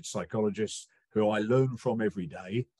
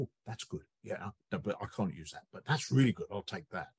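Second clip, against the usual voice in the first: soft, murmured musing to herself; quietly weighing ideas, half to herself; Navratilova musing; 3 semitones lower, 6 dB quieter than usual. Retold or imitated. Navratilova quoted looking around.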